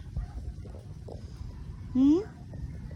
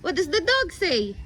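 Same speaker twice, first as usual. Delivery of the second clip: put-on talking to a toddler. Animal sounds game with toddler.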